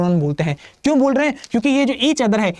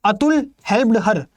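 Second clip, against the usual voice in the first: each word drawn out very slowly; slow example read; much slower than usual. Shown as a demonstration. Teacher reading his example aloud to students, very slow. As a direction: say the sentence slowly like dictation. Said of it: "reads the example sentence".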